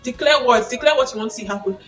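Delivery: rally the congregation like a pastor; pastor preaching. Retold or imitated. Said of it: "My pastor would always say".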